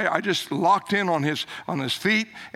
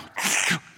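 a quick sharp sniff through the nose; demo sniff; 3 dB quieter than usual. Shown as a demonstration. Preacher demonstrates sucking water from a towel with a sniff. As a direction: show them how you sucked water out of the towel. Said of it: "So you take the towel and go".

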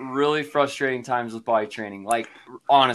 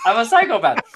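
laughing; 5 semitones higher, 3 dB louder than usual. Real, not acted.

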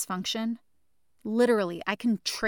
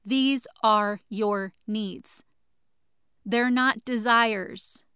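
slow, louder, deliberate emphasis; loving shout; 3 dB louder, much slower than usual. Real, not acted. Host insisting to listeners that needs aren't desires, loving shout. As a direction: plant every word firmly. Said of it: "I'm screaming at you with love".

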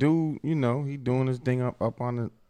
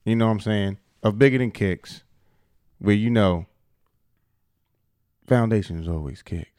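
show intro voice. Real, not acted. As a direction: intone the show's opening line, with long pauses. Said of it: "transition from out your bag into your voice".

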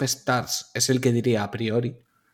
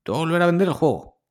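smug greedy company voice; 3 semitones higher, faster than usual. Retold or imitated. Mocks company reselling the game.

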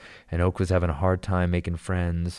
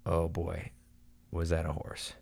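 hushed disbelief; 8 dB quieter, slower than usual. Retold or imitated. Stunned after the crash.

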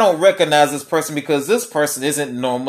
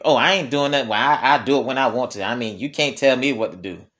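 mock child attitude; 3 semitones lower, faster than usual. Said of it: "they catch an attitude with you".

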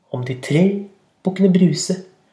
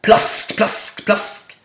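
whispered splash noises; splashing sound; 6 semitones higher, much slower than usual. Acted. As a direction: breathe little splashes. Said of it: "sa det mens han svømte". (hviskende plask)

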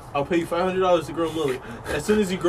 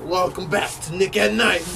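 lightly voiced show host announcing the program; mock TV host; 3 semitones higher than usual. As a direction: imitate a host welcoming viewers back. Mimicking the New Jersey TV host.

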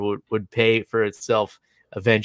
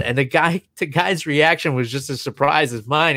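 ordinary talk, nothing marked

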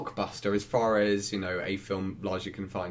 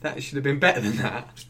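retold disappointment; 2 semitones higher than usual. Cinema-goer reacting after the film, retold disappointment. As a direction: replay a let-down reaction. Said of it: "walked out and went".

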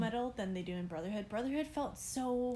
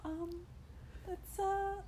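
stunned speechless; 8 semitones higher, 8 dB quieter than usual. Retold or imitated. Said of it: "And we were like".

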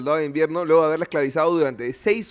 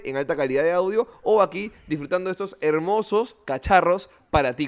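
promo read; 3 semitones higher than usual. Acted.

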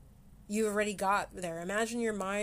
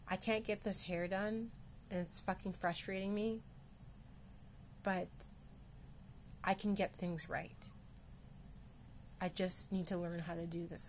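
softer, calm reassuring voice; quiet, kind inner voice; gentle self-talk; 8 dB quieter than usual. Shown as a demonstration. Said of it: "Acceptance and gently speaking".

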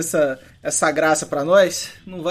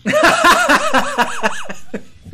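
high loud cackle; 5 dB louder than usual. Real, not acted. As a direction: burst of high-pitched laughter. Laughs at camisa do Chelsea bet.

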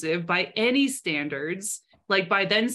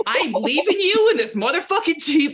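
louder, half-joking fed-up aunt; mock angry threat; 6 semitones higher, 7 dB louder than usual. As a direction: threaten the kid in a loud, hammed-up tone. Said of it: "I was like".

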